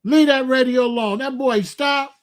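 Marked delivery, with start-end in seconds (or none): 0.1-1.2 stern warning. Retold or imitated. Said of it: "I said".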